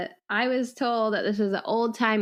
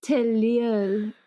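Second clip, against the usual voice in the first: put-on French accent. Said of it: "do it in French".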